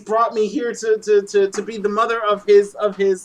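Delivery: high-pitched, hammed-up paranoia; mock panic. Playing paranoid Lois fearing alien children, hammed-up panic. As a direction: spiral upward into frantic alarm.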